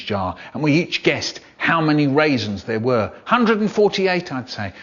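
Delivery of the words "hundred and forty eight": put-on child's guess. Child guessing raisins count.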